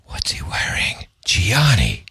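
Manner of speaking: breathy cologne-ad whisper. Pretend. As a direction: whisper it like a perfume commercial. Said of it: "whispered cologne ad".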